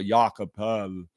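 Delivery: "Jakob Poeltl" with the Austrian o-umlaut; Austrian-style "Jakob Poeltl"; proper Austrian pronunciation. Shown as a demonstration. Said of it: "that's the proper pronunciation".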